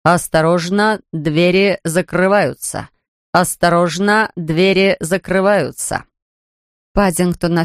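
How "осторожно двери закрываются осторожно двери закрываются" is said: slow, measured automated announcement; booming metallic robot. Acted. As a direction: read it like a bus loudspeaker. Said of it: "металлический голос".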